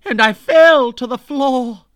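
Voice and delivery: shouted high, as if collapsing; dramatic fall. Acted. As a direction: play up the collapse loudly. Narrating her collapse.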